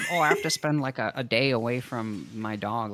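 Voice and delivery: exaggerated woe, teasing; mock complaint. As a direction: imitate a put-upon contestant complaining. Mocks the other's reluctance.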